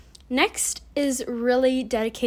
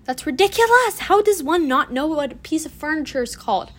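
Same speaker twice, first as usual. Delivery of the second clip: loud, high mock-indignant scolding; mock outrage; 4 semitones higher, 5 dB louder than usual. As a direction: scold yourself in playful exasperation. Mock-scolds self for not knowing word.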